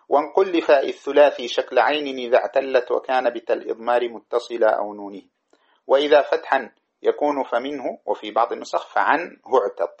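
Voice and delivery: chanted grammar verse, measured; reciting a didactic poem in a lilting chant; verse recitation. Shown as a demonstration. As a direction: recite the poem line steadily.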